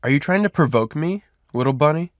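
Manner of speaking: taunting growl. A narrator's reading. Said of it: "Reese growled loudly".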